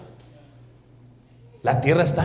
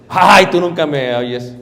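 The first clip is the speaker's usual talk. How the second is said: louder, slow aggrieved whine; mock wife complaint; 8 dB louder, slower than usual. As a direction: sigh it out at the husband, hurt.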